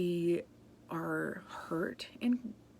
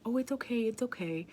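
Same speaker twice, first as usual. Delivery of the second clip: put-on higher-pitched reassurance to a child; soothing parent; 5 semitones higher than usual. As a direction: imitate yourself comforting your small son. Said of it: "starting to say to my son".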